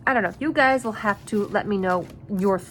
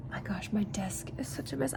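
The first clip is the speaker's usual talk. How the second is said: whispering; 11 dB quieter than usual. Real, not acted. Whispered aside about desk.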